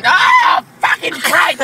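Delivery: sudden yelp of pain; pained shout. Real, not acted. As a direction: cry out as the wax rips. Leg waxing pain.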